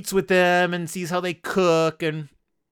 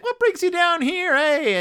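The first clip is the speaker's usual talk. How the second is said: much higher, chipper greeting with a tag "eh"; jolly Wilbur; 4 dB louder than usual. Retold or imitated. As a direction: hail the visitors like an overly cheery fire chief. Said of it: "He's like".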